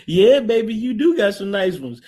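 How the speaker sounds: hammed-up flirt; leering mock voice. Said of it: "he said".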